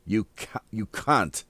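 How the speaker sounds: lightly imitated British vowel; British accent. Shown as a demonstration. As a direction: demonstrate the British pronunciation. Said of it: "It's their accent".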